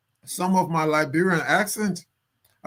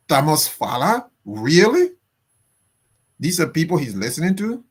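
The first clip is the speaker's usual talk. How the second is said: incredulous; 3 dB louder than usual. Real, not acted. Disbelief at president's advisers.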